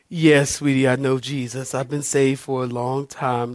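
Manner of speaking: soft, low, measured patience; calm, sweet reply. Retold or imitated. Wife reassures the church stranger, soft and calm. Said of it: "like that".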